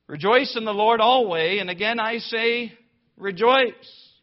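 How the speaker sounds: loud, high ringing proclamation of the verse; proclaimed verse. Real, not acted. Preacher booming the verse to his congregation, loud and high.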